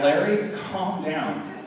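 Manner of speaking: imitating a wife, slowly drawn out; wife's slow reproof. Wife telling her husband to calm down, slow reproof. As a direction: stretch the words to settle him. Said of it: "And she's like".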